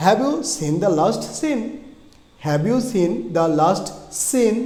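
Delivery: careful, drawn-out teacher's demo; slow model reading. Shown as a demonstration. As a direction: model it slowly, each word separate. Teacher models sentence slowly for learners. (ধীরে, স্পষ্ট করে পড়া)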